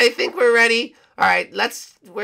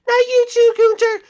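much higher, loud despair; dismayed cry; 7 dB louder than usual. Acted. Hero sees penguin turned, high loud dismay. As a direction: cry out as a friend is lost. Friend falls under spell.

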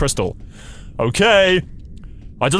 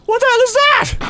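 high, startled and frightened; scared high voice at a sudden sound; real fright. Real, not acted. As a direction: blurt it out in real shock. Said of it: "That actually fucking scared me".

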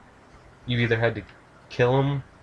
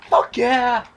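raised, high-pitched elation, last words drawn out; excited yelling; 13 semitones higher, 4 dB louder than usual. Real, not acted. Player cheering after apologising for a yell, elated shout. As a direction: burst out high and thrilled, stretching the cheer. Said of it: "Sorry I yelled".

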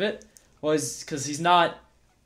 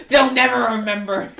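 laughing; 7 semitones higher, 7 dB louder than usual. Real, not acted. Joking about forgetful show writers.

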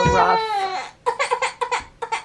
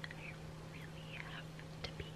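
whisper; 28 dB quieter, much faster than usual. Real, not acted. Mom pinned under her sleeping baby, whispering. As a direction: whisper so she won't wake.

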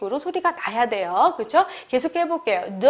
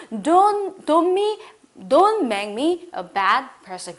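raised, insistent warning that builds up; 3 semitones higher, 3 dB louder, much slower than usual. Shown as a demonstration. Teacher acting out a stern warning to someone, raised and insistent. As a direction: warn them sharply, voice up and louder. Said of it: "다시 한번".

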